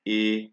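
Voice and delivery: E as "ay", as in day; French E acute. Shown as a demonstration. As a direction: say E like the vowel of "say". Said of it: "they change the sound".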